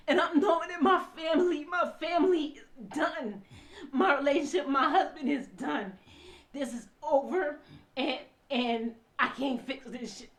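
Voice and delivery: real tears breaking into the words; crying. Real, not acted. Wife realizing her family is done, crying. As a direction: talk on through sobbing breaths. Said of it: "I'm crying".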